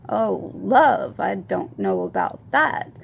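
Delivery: swooping emphasis on love, then backing off; retold uneasy reaction to a love confession; awkward brush-off. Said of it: "I said it like that".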